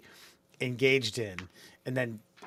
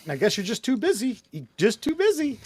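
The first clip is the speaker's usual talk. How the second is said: raised, louder mock scolding; mock exasperated retort; 8 semitones higher, 5 dB louder than usual. Replying to someone who never read the email, mock exasperation. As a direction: tell off a lazy reader, hammed up. Acted sarcastic retort to repliers.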